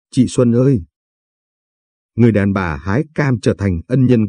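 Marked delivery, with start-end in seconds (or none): 0.1-0.8 a touch of tears calling Chị Xuân ơi once more; understated weeping cry; sobbing lightly. A narrator's reading. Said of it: "Hạ bưng mặt bật khóc nức nở".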